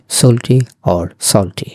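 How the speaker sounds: slowly, first সল্টি as "sole-tee", then as "sawl-tee"; both pronunciations. Shown as a demonstration. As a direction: contrast close o and open aw in সল্টি, unhurried. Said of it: "দুটোই ঠিক আছে".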